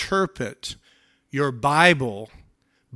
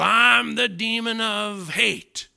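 slow, higher put-on demon voice that drops away; mock demon voice; 4 semitones higher than usual. Preacher ridiculing a demon naming sins, in a mock demon voice. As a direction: sneer it like a cartoon demon. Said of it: "do you hear a demon speaking".

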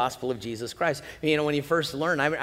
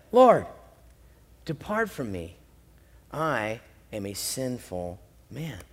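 humbled confession; 6 semitones lower, slower than usual. Acted. Peter confesses at Jesus' knees.

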